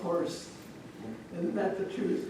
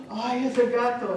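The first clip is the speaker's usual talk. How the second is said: put-on raised, louder little-boy cry; echoed fright; 4 semitones higher, 5 dB louder than usual. Little boy next to daddy, echoed fright. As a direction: copy father's fright, a bit milder.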